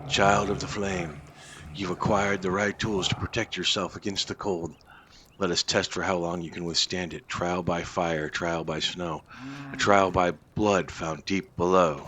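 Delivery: solemn storyteller read; quest narration. Acted. Gamer reading the oracle's quest lines aloud, solemn. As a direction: intone the trial like an oracle. Reads NPC quest dialogue.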